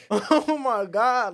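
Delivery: slow, loud, high drawn-out oh my God; stunned disbelief. Retold or imitated. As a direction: stretch it out in loud amazed disbelief. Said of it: "And I'm just like".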